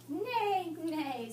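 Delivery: whinny like a horse; horse neigh. Acted. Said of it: "said the horse".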